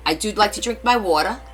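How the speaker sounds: thick New Jersey talk, with coffee and car in dialect; Jersey accent. Shown as a demonstration. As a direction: play an indignant Jersey local denying the accent. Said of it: "Jersey accent".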